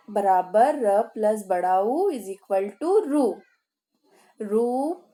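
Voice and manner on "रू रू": slow sounding out. Shown as a demonstration. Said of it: "teacher sounds out रू".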